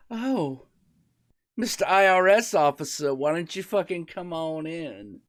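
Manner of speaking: a lightly put-on Southern belle welcome; hammed-up Southern accent, light. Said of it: "I gave them Southern accents".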